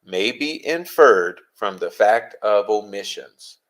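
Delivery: slow emphatic repeat. Shown as a demonstration.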